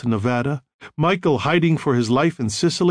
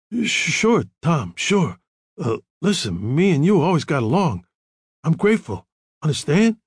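higher, nervous stammer; shaky; 4 semitones higher than usual. A narrator's reading. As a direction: nervously reassure the caller, stumbling. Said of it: "Carlo's voice was a little shaky".

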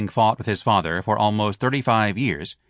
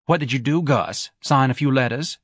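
Mrs Levy's voice; 4 semitones higher than usual. Acted. Wife sniping at her husband who skipped the races. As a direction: needle him with every word.

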